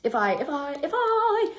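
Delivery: stuck repeating the words; stammering start; stutter. Real, not acted. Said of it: "I haven't stuttered".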